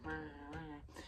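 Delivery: soft, half-hearted dinosaur growl; small throwaway "rah" roar; mock T-Rex roar. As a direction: imitate a T-Rex with little effort. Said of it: "kinda like T-Rex".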